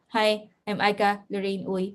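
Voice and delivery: mock stiff robot-like greeting; robotic self-introduction. Mentor imitating a colleague's first stiff video, robotic. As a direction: recite your name like a robot, lightly mocking. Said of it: "Parang robot".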